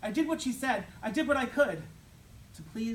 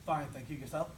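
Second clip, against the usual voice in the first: monotone blurt; 4 semitones lower than usual. Retold or imitated. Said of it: "said in a monotone blurt".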